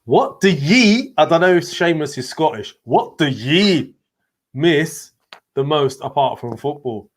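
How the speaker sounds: slow, tentative Scottish reading, stretching "ye"; attempted Scottish accent. Host reading out Seamus's question, attempted Scottish accent. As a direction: read it out in a careful, half-there Scottish accent. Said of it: "I'm trying to say it in his accent".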